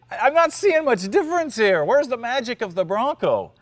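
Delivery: high, loud, exasperated protest; mock exasperation. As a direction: complain loudly with the pitch way up. Acts out his exasperated reaction.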